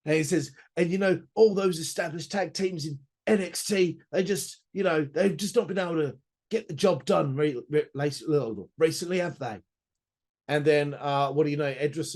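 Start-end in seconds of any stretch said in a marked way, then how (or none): 0.8-9.6 a hint of a cocky Nathan; Nathan Fraser impression. Vlogger mimics Nathan Fraser teasing the tag teams, lightly smug voice. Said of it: "I'm just gonna do the impression anyway".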